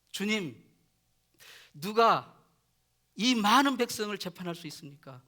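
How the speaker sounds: lightly acted earnest prayer to God; Solomon. Young new king prays to God for wisdom, mildly pleading. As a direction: plead aloud, forceful openings that ease off. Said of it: "솔로몬이 그래도 양심 있는 사람".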